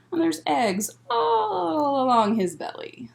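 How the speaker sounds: soft whispered aside; whispering. Real, not acted. Whispered aside about picture.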